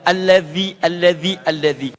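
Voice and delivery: "allazi" with voiced th on "zi"; "allazi" said as a-lla-dhi; Arabic allazi. Shown as a demonstration. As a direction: bite the tongue on "allazi". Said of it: "sedikit digigit lidahnya".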